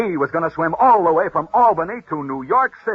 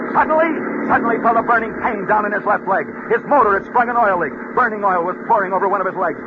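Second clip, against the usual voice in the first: excited race narration; 8 semitones higher than usual. Acted. Radio host telling the race's burning finish, rising excitement. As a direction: drive the story to its climax like a race call.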